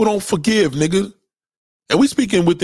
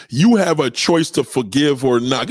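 slow, mocking recital of the saying; imitating disgruntled person; 4 semitones lower than usual. Mocking a disgruntled person's advice, slow and sneering. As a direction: parrot the cliché slowly and mockingly. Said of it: "Disgruntled people talk like this".

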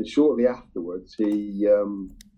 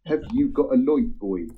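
1 Norfolk accent; 4 semitones higher than usual. Shown as a demonstration. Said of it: "light is spelled L O I G H T".

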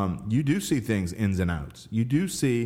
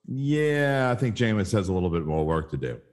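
diplomatic. Retold or imitated. Host voicing Drew's careful verdict on Jameis, diplomatic. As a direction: imitate someone tactfully understating a criticism. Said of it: "he was very diplomatic".

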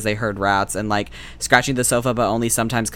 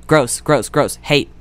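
disgusted rant; 4 semitones higher, 5 dB louder than usual. Real, not acted. Disgusted rant about bird bones.

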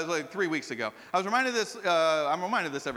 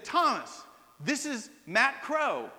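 lightly voiced caller, higher and slow; retold phone greeting, pitched up; caller announcing himself; 5 semitones higher, slower than usual. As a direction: announce yourself with mild ceremony, stretching the name. Retelling an old schoolmate's phone greeting.

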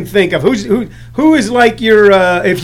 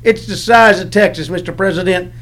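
light Southern movie-star impression; Billy Bob Thornton; 3 semitones lower than usual. Comedian imitating an actor's usual way of talking, lightly Southern. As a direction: do a laid-back Southern actor. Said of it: "where he talks like this".

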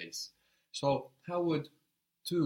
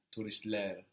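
Turistler with the stress on the final ler; Turistler, lean on the last syllable ler; stress on the plural ending. Shown as a demonstration. Teacher shows the student the plural stress: Turistler, stressed on ler. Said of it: "accent on the plural ending".

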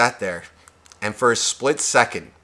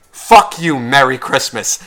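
snapped retort; 5 dB louder, slower than usual. Retold or imitated. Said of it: "she was like".

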